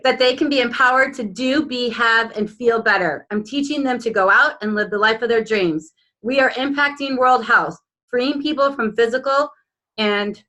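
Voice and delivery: earnest reading of a personal vision statement; proud, measured affirmation read aloud. Acted. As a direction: declare each line like a vow. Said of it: "I feel emotional".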